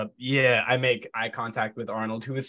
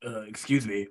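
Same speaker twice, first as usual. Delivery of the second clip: hobo voice, a touch gravelly; lightly voiced hobo asking politely; cracked rambling vagrant; 2 semitones lower, 3 dB quieter than usual. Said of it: "I go back into my hobo voice".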